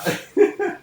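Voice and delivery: sudden high burst of laughter; loud laugh. Real, not acted. Player pulls out blue paper.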